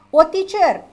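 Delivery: high loud student calling out; mock student. Student interrupting the teacher, high and loud. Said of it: "imagined student calls out".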